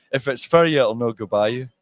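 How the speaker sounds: Scottish "for" as "fer" and "no go"; Scottish accent. Shown as a demonstration. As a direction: say the saying in broad Scots. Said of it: "say it in Scottish again".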